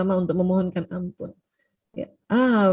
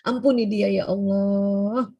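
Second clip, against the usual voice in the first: forgiving prayer. Shown as a demonstration. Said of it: "maafkan dulu anak-anak".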